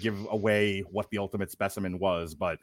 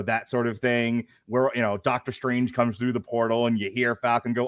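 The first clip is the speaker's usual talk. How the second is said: ordinary delivery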